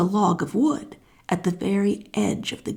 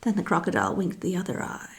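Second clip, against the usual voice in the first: hushed sly whisper; whispered storytelling aside; 7 dB quieter than usual. A narrator's reading. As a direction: whisper it like a secret. Sly crocodile wink.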